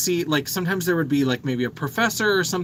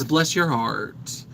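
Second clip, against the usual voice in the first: Southern blessing; much slower than usual. Shown as a demonstration. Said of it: "I embrace that sort of Southern".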